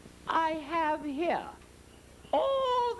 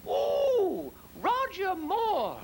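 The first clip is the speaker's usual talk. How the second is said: mock screaming neighbor; 3 semitones higher, 3 dB louder, much slower than usual. Neighbor through thin walls, swooning mock scream. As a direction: swoon the name out like a lovesick woman. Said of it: "I heard her screaming".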